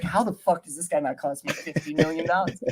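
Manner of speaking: a hint of an incredulous coach, lightly voiced; imitating the coach's baffled disbelief, half-joking; mock Sean Payton. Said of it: "He's like".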